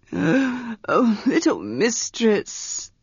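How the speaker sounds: put-on slow, breathless, dismayed old servant; Manon's pleading. Breathless old servant Manon protests to his young mistress.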